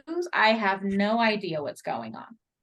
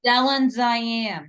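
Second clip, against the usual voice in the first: put-on slow, louder echo of an East L.A. accent; mock accent; 3 semitones higher, 6 dB louder, much slower than usual. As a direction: drag out the names in a copied East L.A. accent. Echoes co-host's accented names.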